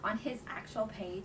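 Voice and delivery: slightly winded, catching breath. Real, not acted. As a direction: talk while still panting a little. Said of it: "Sorry, I'm out of breath".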